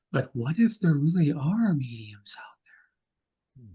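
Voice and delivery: hushed, mysterious whispered question; mock whisper. TV show teasing viewers about real mediums, hushed whisper. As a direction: breathe it like a spooky TV teaser. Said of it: "we don't want this".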